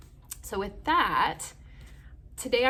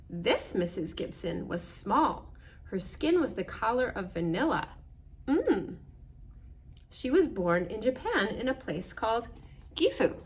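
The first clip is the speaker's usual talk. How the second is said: measured storybook narration; reading to children. Acted. Reading picture book aloud.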